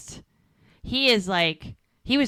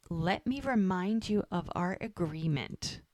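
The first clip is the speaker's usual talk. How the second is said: softer, measured mock menace; retold sinister; 5 dB quieter than usual. Reminding him of their agreement, softly sinister. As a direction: imitate a sinister boss with a quiet reminder. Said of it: "like, a sinister vibe to it".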